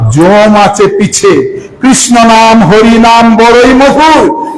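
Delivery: slow chanted verse; verse recitation. Acted. Preacher recites the Maharaj's verse to devotees, slow chant. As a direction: intone each line slowly.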